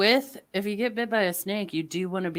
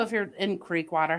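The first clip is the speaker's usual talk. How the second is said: normal talking voice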